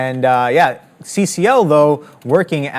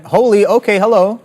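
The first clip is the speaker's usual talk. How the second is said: higher and louder burst of real surprise; surprised exclamation; 7 semitones higher, 4 dB louder than usual. Real, not acted. Trader reacting to a sudden AMD chart move, real surprise. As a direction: caught off guard by a sudden spike.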